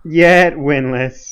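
slow, laughing repeat of the phrase; laughing echo. Real, not acted. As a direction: savour it through a chuckle. Amused echo of co-host.

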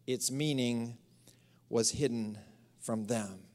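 slow hushed whisper of the verse; dropped to a whisper for mystery. Acted. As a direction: whisper it like a secret. Scripture line read hushed.

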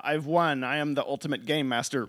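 gloating villain voice, quick; evil villain gloating. Retold or imitated. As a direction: ham it up like a cartoon villain. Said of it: "evil Bakura is like".

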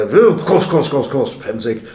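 high, loud "of course" that fades down; indulgent priest. Retold or imitated. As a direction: humour the boy, then settle. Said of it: "And he said".

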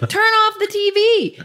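wife ordering husband to kill the TV, angry and high; angry demand. Retold or imitated. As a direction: snap the order at him.

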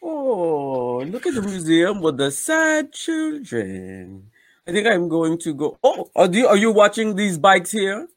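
hint of a French accent, unhurried. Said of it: "what accent is that?".

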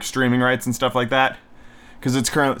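winded after a workout; out of breath. Real, not acted. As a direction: talk while catching breath. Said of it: "I just finished working out too".

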